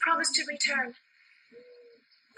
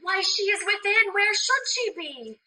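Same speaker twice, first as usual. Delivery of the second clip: heated; 7 semitones higher than usual. Acted. Juliet baffled by nurse's odd question, heated. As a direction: retort in exasperation. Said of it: "are you so hot".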